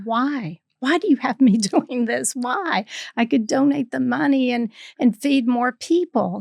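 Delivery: retold exasperated complaint, not fully shouted; retold yell at God. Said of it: "And I yelled at God".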